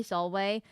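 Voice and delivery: "Solway" said sol-way; Latin V as W. Shown as a demonstration. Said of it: "You just say".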